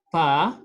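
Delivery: PA with open "ah", no S; silent final S. Shown as a demonstration. French teacher shows silent letter, open "pa". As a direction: say "pa" ending on the vowel. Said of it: "S is silent".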